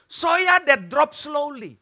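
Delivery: very slow, stretched-out words; halting improvised English. Acted. Friend orders thick soy sauce, slow and drawn-out. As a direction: drag each word as if inventing the phrase.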